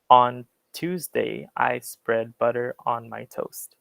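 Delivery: relaxed American "butter"; American accent. Shown as a demonstration. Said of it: "in the American way".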